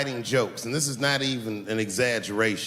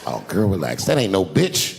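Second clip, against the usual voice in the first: smooth it over like nothing's wrong; smooth talk; 4 dB louder than usual. Retold or imitated. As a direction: caught cheater coaxing his girlfriend to relax. Caught boyfriend smooth-talking.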